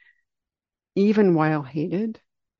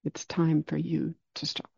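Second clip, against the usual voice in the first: calm Buddha; 3 dB quieter than usual. Retold or imitated. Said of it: "the Buddha calmly stops".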